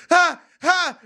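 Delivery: high, short mock gasps; imitated post-shot gasps. Mocking friends' reaction right after a shot, imitated gasps. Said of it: "they immediately be like".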